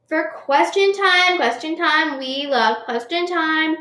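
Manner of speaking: slow, high sing-song jingle; sing-song announcing. Pretend. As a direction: chant it like a show segment. Announcing a podcast segment.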